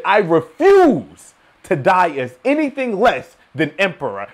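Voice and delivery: slow, proud declaration; deliberate, weighty quote; measured, resolute vow; quoted vow. Retold or imitated. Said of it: "When I heard him say that".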